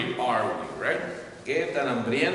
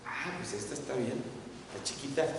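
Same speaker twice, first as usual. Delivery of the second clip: man choosing a cross; 11 dB quieter, faster than usual. Retold or imitated. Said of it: "va y busca ese hombre".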